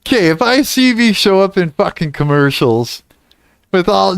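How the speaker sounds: ordinary delivery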